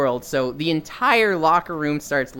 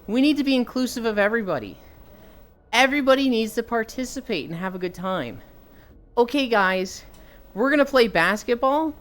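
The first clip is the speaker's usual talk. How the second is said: higher-pitched mock gym teacher addressing the class; imitating gym teachers; 5 semitones higher than usual. Gym teacher setting basketball rules for the kids, mock-instructive. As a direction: lightly caricature an inclusive PE teacher giving rules. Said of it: "gym teachers that were like".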